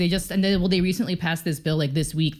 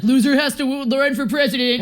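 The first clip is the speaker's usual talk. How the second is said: loud, high mock decree; mock proclamation; 8 semitones higher, 5 dB louder than usual. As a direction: announce the bet's rule, hammed up. Mock rule of the bet.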